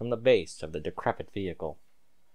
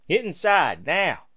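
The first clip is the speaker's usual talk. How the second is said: a raised order, not a full shout; 7 semitones higher, 5 dB louder, slower than usual. A narrator's reading. Stallion sends his wife inside, raised urgent order. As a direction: bark the order to get inside. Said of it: "ordered Scalding".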